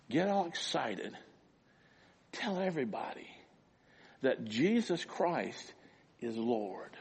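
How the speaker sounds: soft, subdued recital of the lyric; softly spoken, unhurried lyric; understated quote. Retold or imitated. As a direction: say the words quietly, with space between phrases. Quotes the song softly first.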